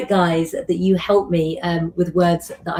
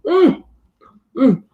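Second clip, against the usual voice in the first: pleased mmm while chewing; savoring hum; 7 semitones higher, 4 dB louder than usual. Real, not acted. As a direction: hum with delight over food. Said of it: "have a bite of my chocolate eclair".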